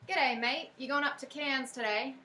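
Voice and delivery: G'day, mate in a light Australian accent, r dropped in Cairns; a mild stab at an Australian twang. Shown as a demonstration. Preacher demoing an Australian accent to the congregation, lightly done. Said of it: "sounds a little more like this".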